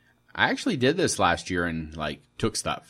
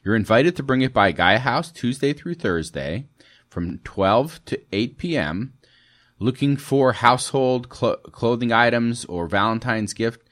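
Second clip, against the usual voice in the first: infomercial voice; 5 dB louder than usual. Acted. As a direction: sell it like a TV ad. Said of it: "I sound like a infomercial".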